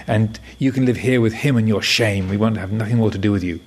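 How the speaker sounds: a lightly acted furious parent telling off the monk; indignant parents. Parents dumping the baby on the monk, scolding him indignantly.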